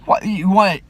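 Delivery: high, loud, outraged yelling; angry outburst. Retold or imitated. Teacher yelling at the student who made a move, outraged and loud. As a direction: blow up at her in shock. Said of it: "I'm angry and I'm like".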